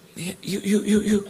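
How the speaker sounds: insistent calling. Retold or imitated. Acted preacher picking him out.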